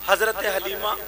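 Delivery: ordinary talk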